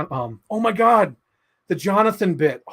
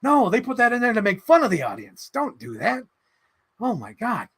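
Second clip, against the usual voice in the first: higher, wincing mock protest; higher, pained plea to the audience; cringing plea; 7 semitones higher than usual. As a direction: beg the audience up high not to laugh. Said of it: "I just remember going".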